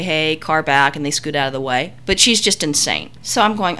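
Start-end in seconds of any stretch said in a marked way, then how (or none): 0.0-1.0 friendly calm warning; nicely said. Shown as a demonstration. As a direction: call it out nicely and easily. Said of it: "you nicely say".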